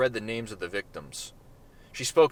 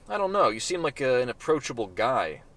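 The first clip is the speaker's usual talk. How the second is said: lightly voiced flirty woman.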